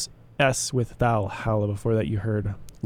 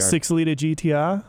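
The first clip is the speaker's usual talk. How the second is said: a native Australian's easy, natural "Six liter G T R"; Australian accent; 3 semitones higher than usual. Shown as a demonstration. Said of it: "You try".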